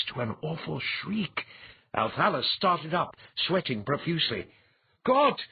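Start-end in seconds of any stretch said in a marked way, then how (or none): 1.9-4.5 startled awake. A narrator's reading. Waking in terror. 5.0-5.4 sudden high shout of terror; terrified exclamation. A narrator's reading. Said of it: "he exclaimed, trembling violently".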